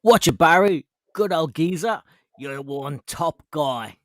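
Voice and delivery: loud greeting then a slow put-on bloke voice; hammed-up matey voice note to Barry; mock voice note. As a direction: ham up a cheeky geezer message. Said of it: "we'll get you say something".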